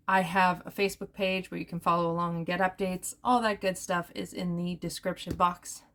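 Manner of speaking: winded after a long rush of talk; running out of air by the end; out of breath. Real, not acted. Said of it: "Whew, I'm out of breath".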